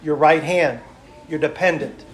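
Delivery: loud, rhythmic pulpit delivery, listing each item; fervent preacher's list; preaching. Acted. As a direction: preach it to the congregation.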